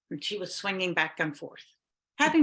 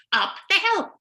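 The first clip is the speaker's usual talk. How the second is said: high insistent witch voice; 11 semitones higher, 5 dB louder than usual. Acted.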